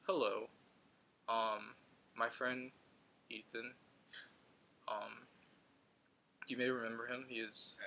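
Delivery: flat, even robotic delivery. Retold or imitated. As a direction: read it out like a robot. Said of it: "Absolute robotic voice".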